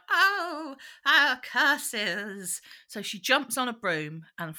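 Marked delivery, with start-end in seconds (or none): 0.1-2.6 witch curse. Retold or imitated. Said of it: "she's like".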